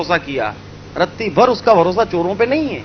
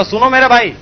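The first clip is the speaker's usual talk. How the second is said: a firm, somewhat raised call to the thieves; stern call; 4 semitones higher, 4 dB louder than usual. Acted. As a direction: hold them back with authority. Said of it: "कड़क आवाज में बोला". (कड़क आवाज़ में पुकारना)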